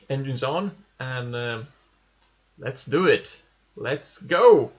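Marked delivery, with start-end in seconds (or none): 2.6-4.7 excited. Real, not acted. Rocket launch, engines on.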